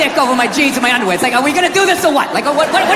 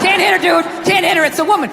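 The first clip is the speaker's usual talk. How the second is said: voice of reason; 5 semitones higher than usual. Retold or imitated. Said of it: "just spitball".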